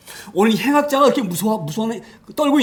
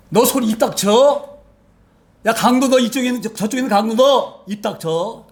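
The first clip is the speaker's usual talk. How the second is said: rebuking thief; 3 semitones higher than usual. Retold or imitated. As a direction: shut the other thief up with force. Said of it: "한 강도가 얘기하는 거예요".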